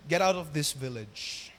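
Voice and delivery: low, slow dismissal, leaning on out; villagers sending him away. Retold or imitated. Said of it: "At sabi nila". (mababa at mabagal na pagpapaalis)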